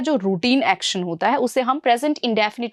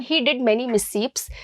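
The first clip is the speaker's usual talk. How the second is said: slow sentence read; much slower than usual. Shown as a demonstration. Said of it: "तो बात करेंगे इस question की".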